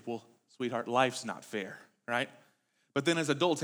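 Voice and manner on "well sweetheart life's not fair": soothing parent. Retold or imitated. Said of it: "as a parent, you probably said this to your kid".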